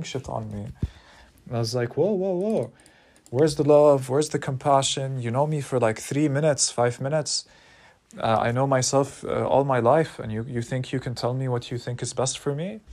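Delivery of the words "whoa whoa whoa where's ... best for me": high, loud upset pushback; indignant protest. Retold or imitated. Speaker pushing back at the teacher, loud upset protest. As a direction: demand some compassion, voice up.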